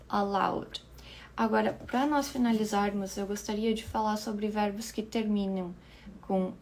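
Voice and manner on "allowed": allowed whispered; allowed sussurrado. Shown as a demonstration. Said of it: "pronunciation demo".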